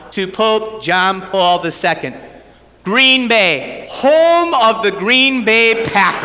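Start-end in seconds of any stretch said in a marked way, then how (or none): 2.8-6.3 blurted out nervously. Retold or imitated. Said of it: "the next words that came out of my mouth".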